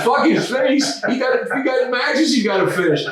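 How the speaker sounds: high, heated griping; angry rant. Retold or imitated. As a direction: spit it out like an angry boss. Imitating Vern's angry attitude.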